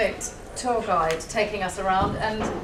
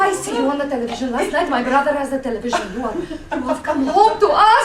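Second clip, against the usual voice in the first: lightly acted foreign guide, building louder; retold starstruck gushing; awestruck tour guide; 3 dB louder, much faster than usual. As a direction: build to a reverent, overjoyed welcome. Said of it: "she's like".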